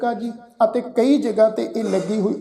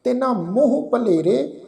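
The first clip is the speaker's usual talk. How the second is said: careful, measured Gurbani recitation, ਦਈ said clearly; slow scripture recitation. Shown as a demonstration. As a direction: recite it slowly and carefully, like teaching the verse. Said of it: "ਫਿਰ ਅਸੀਂ ਪਾਠ ਉਚਾਰਨ ਕਰਦੇ ਹਾਂ ਜੀ". (ਹੌਲੀ ਤੇ ਸਾਫ਼ ਗੁਰਬਾਣੀ ਪਾਠ)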